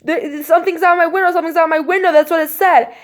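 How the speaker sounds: high, urgent, repetitive blurting; retold panic. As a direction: act out a shaken, panicked report. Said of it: "I'm, like, shaking now".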